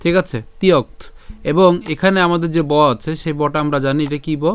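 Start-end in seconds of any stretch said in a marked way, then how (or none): 0.6-1.0 "তিয়ক্ত" cut off on the t; partial-word pronunciation. Shown as a demonstration. Teacher builds the word up to t, careful "তিয়ক্ত". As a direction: say "তিয়ক্ত" with a y glide, stopping at t. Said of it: "ত পর্যন্ত আমরা উচ্চারণ করলাম".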